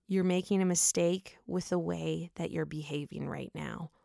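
soft, hushed warning; imitating a quiet, controlled reprimand; retold whisper. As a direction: say it low, for one listener only. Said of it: "whispers in her ear".

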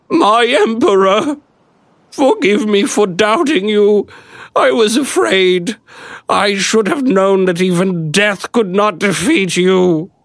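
high, slow, tearful pleading voice; tearful peasant woman. A narrator's reading. Peasant woman weeping at her emperor's feet, high and pleading. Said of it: "dampened it with her tears".

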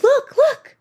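high, eager look-at-this call; excited calling out. Retold or imitated. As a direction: call out like a thrilled show-off. Showing off to a room.

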